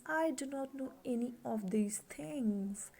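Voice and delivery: hushed, breathy whisper; whispered, unvoiced reading. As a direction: whisper it as a private confession. Paraphrase in whisper.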